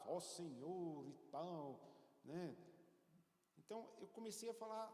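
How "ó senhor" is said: mock formal prayer. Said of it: "ficar buscando palavras".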